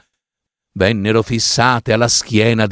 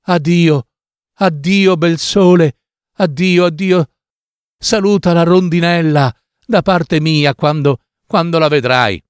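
higher, mournful goodbye to the sun; sad farewell; 4 semitones higher than usual. Acted. Mignolina bidding the sun farewell before her wedding, sad and higher. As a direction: let each addio ache a little more. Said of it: "La poverina era così triste".

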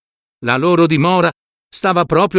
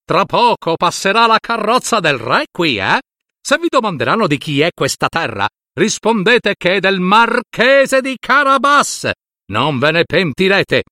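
threatening; 3 semitones higher than usual. Acted. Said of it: "gridava loro con voce minacciosa".

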